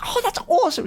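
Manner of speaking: light mock enthusiasm; imitating sister's delight. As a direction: sell it like a happy sister. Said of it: "was like".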